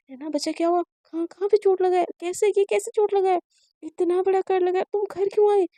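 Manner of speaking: a frantic mother seeing her daughter's cut; panicked mother. Acted. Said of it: "उसकी माँ पागलों जैसे behave करने लगती है". (घबराई हुई माँ, ऊँची आवाज़ में)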